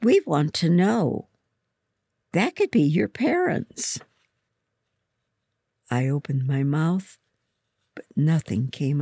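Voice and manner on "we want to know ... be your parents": pushy, higher-pitched schoolgirl; insistent taunt; demanding. A narrator's reading. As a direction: press for an answer with raised pitch. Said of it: "another girl close to me demanded".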